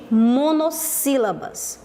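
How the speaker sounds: "monossílabas" slowly, in separated parts; measured, teacherly "monossílabas"; slow term announcement. Shown as a demonstration. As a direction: spell out "monossílabas" as mono, then sílabas. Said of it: "eu chamo de".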